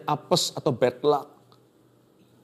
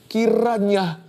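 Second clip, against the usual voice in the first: tearful prayer; 6 semitones higher than usual. Shown as a demonstration. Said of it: "Dengan nangis deras ini".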